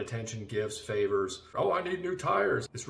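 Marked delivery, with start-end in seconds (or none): 1.5-2.7 high mock whiny request; mock wife's high plea. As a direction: ham up a needy wife asking for tires. Wife's demands mocked.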